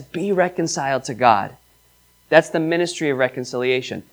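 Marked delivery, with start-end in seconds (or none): 0.0-1.6 gentle plea. Acted. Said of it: "goes into somebody's life and says".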